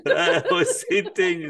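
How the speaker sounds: laughing. Real, not acted. Laughing at the retold story.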